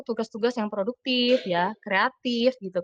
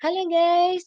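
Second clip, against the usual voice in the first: higher, chirpy streamer hello; a hammed-up streamer hello; streamer greeting; 8 semitones higher, 3 dB louder, much slower than usual. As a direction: open it like a streamer going live.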